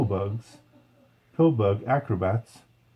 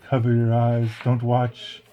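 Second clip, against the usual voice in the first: warning. Retold or imitated. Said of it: "He said".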